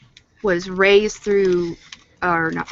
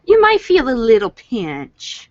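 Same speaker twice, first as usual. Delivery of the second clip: mock doctor; 3 semitones higher, 5 dB louder, slower than usual.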